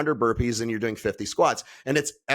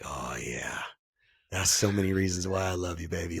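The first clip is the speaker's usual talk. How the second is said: tender to wife; 9 semitones lower, 8 dB quieter than usual. Retold or imitated. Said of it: "I'm like".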